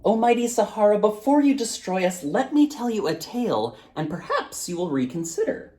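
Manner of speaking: put-on a brave child pleading with a giant; boy's voice. Boy calls up to the mighty djinn, high and bold.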